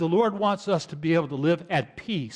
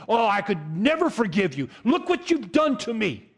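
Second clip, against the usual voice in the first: a hint of wounded self-pity, raised pitch; resentful attitude; 3 semitones higher than usual. Pastor imitating an unforgiving Christian, mildly aggrieved. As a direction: sulk that you were wronged. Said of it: "We shouldn't take that attitude".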